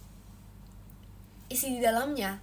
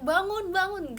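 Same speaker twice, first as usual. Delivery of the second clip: mock wake-up yell; 6 semitones higher, slower than usual. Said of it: "masa teriak-teriak".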